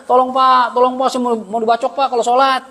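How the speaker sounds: mock cry for help. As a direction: call out for help in mock panic. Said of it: "teriak aja". (pura-pura teriak minta tolong)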